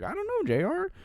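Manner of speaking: Lawler impression. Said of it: "And Lawler's like".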